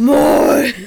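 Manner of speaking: high, loud shouted greeting; mock shouting. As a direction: bellow hello as if shouting is your only voice. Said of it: "vaan siis huutoa legit". (leikillään huudettu tervehdys)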